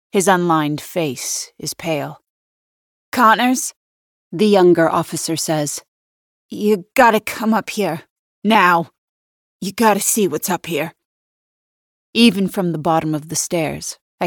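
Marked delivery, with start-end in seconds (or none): 3.1-3.7 high, loud, rising at the end; anxious raised hail from upstairs; urgent call. A narrator's reading. Shaken young officer calls again. 6.5-10.9 insistent, raised summons; lightly voiced rattled young cop; urgent young officer. A narrator's reading. Shaken young officer urges his partner upstairs.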